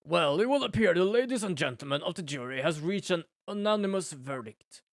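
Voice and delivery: lightly voiced stern judge reading the verdict; a hint of pompous courtroom gravity; courtroom character voice. Judge addressing the court, a lightly stern voice.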